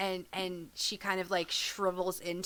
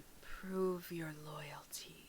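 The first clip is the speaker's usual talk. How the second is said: hushed whisper, barely audible, very quiet; 2 semitones lower, 11 dB quieter than usual. Narrating the scene as Aki whispers again, whisper. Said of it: "she just whispers again".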